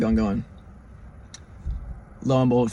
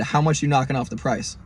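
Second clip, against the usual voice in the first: level, matter-of-fact haggling; understated no-nonsense demand; dead serious. Retold or imitated. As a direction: ask it in earnest, pitch settled down. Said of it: "And I said it like that".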